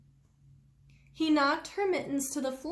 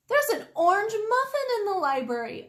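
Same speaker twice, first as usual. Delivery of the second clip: put-on giggling girl; 8 semitones higher, 4 dB louder than usual. A narrator's reading. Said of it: "a girl giggled".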